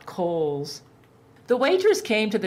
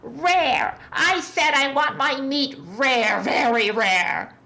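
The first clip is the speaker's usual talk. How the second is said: higher, louder furious demand; angry growl; 7 semitones higher, 3 dB louder, slower than usual. A narrator's reading. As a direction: bark it at the waitress. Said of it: "He growled".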